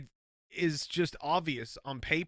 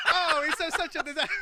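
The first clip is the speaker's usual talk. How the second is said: laughing, high accidental Irish lilt; Irish accent; 12 semitones higher, 6 dB louder than usual. Retold or imitated. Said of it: "I wasn't trying to do an Irish accent there".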